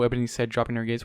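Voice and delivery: usual speaking voice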